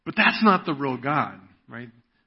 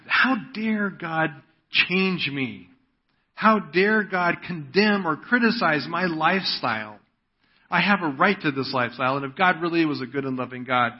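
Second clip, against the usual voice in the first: mock-indignant objector, a touch of outrage; indignant defiance; 3 semitones higher than usual. Preacher voicing an unbeliever who resents God, mildly indignant. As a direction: lightly act out someone bristling at being judged. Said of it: "there's that hostility".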